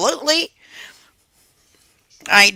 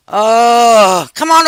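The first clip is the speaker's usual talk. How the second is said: mocking taunt; 3 semitones higher, 5 dB louder, much slower than usual. Real, not acted. Taunting the two brothers.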